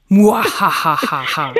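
langsames, lautes Schurkenlachen; böses Lachen. Acted. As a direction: lach wie ein Bösewicht im Film. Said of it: "Und ich lese den so vor, wie Sie den geschrieben haben". (böses Schurkenlachen)

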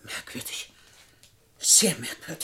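breathy, wary whisper; suspicious whisper. Acted. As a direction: mutter it to yourself, suspicious. Suspicious remark under breath. (misstrauisches Flüstern)

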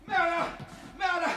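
very high, frantic calls; panicked cries for help. Acted. Robbed miser screaming for help after the theft.

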